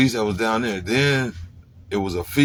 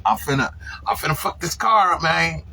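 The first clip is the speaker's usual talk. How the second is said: riled up; 7 semitones higher than usual. Retold or imitated. Angry build-up retelling the break-in.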